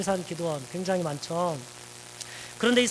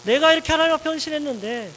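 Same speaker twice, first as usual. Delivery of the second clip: raised, louder, higher aggrieved protest; complaining to God; 3 semitones higher, 3 dB louder than usual. Acted. Elijah complaining bitterly to God, raised and aggrieved. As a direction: pour out the grievance, pushing harder each line. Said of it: "하나님 앞에 원망을 퍼붓게 되죠".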